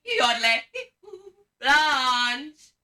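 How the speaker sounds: loud yell, "Blanche!" rising at the end; warning shout. Shown as a demonstration. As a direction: sound the alarm for the crowd. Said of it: "shout out like this".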